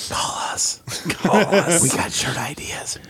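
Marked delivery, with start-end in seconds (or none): 0.1-0.8 soft whispered call us; whispering. Pretend. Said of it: "whispered plea to call in". 1.8-3.0 soft conspiratorial whisper. Pretend. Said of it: "whispered aside to listeners".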